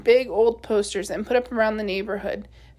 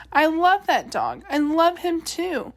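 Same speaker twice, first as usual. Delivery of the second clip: crying; 5 semitones higher than usual. Acted. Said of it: "He started to cry".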